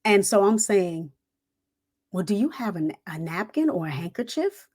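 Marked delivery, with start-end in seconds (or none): 2.1-4.7 softer, dainty polite request; lightly acted prim little miss; prissy. Recruit asks the sergeant for a napkin, prissy. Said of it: "me being Miss Prissy".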